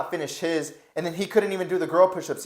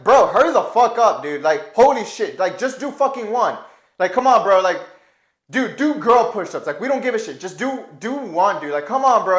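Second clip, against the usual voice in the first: louder, exasperated yell at a slacker; impatient yelling; 4 semitones higher, 6 dB louder than usual. Retold or imitated. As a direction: bark at him to hurry up, fed up. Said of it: "we went from ... And this to".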